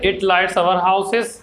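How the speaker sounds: very slow, even English reading for students; a teacher reading a textbook line slowly and clearly; slow flowing read-aloud. Shown as a demonstration. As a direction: read it out slowly so the class can follow. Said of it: "यहाँ थोड़ा पौ-, रुकना है".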